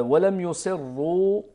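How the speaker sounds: يصروا with a thin, light ra, slow; Warsh reading. Shown as a demonstration. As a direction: say ولم يصروا slowly with the ra thinned. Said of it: "يكون مع ترقيق الراء".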